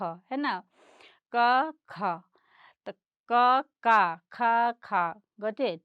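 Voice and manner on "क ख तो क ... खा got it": "क" unaspirated then "ख" with a strong breath puff, loud and clear; teacher pronouncing letters. Shown as a demonstration. Teacher sounding out "क" and "ख" for children, loud and clear. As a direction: say "क" crisp, then "ख" with an aspirated burst. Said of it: "ऊपर पढ़ेंगे क और नीचे वाला पढ़ेंगे ख".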